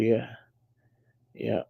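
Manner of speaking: sleepy trailing mumble; nodding off. Real, not acted. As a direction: drift off mid-word. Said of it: "Yeah, I'm sleepy".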